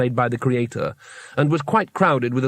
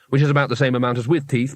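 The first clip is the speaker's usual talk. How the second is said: ordinary delivery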